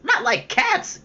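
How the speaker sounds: very high, indignant squeak of a mouse; shrill, passionate. A narrator's reading. The offended mouse shrieking at Alice, very high. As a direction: shriek it in outrage. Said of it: "in a shrill, passionate voice".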